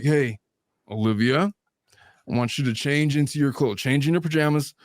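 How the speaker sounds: mildly firm dad, rising in pitch to the count; parental big voice. Retold or imitated. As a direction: warn a child, building toward the countdown. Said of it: "sometimes I'll use my big voice".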